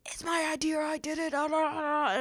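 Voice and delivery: high, breathy whispered self-mockery; mocking my own rampage. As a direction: mimic your own boastful rant, high and whispery. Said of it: "going off on this whole rampage".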